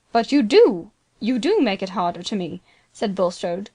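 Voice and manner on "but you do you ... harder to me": desperate, louder plea; pleading cry. Acted. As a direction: beg him not to abandon you. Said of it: "constrained into a genuine pleading cry".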